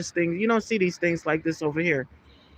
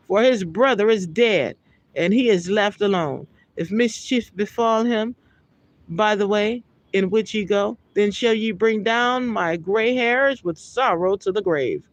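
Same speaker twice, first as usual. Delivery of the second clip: raised, measured Bible reading voice; scripture reading; 3 semitones higher than usual. Acted. Preacher reading Genesis aloud to his listeners, solemn. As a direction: read the verse out with solemn weight.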